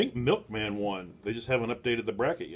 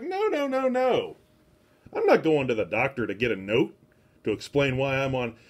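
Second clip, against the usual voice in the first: retold protest; 4 dB louder than usual. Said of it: "And I was like".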